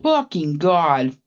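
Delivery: real gasp at the heat; shocked exclaim. Real, not acted. Reacting to spicy mango.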